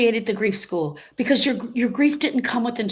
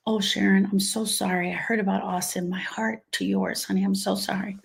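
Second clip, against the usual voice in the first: sympathetic friend; 3 dB quieter than usual. Pretend. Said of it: "So I'm gonna role play it".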